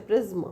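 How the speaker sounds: "प्रिज्म" with a slight schwa before m; space between syllables. Shown as a demonstration. Teacher pointing out the space inside, two-beat word. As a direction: say "प्रिज्म" as two beats, priz-m. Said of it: "इसके बीच में ये space है".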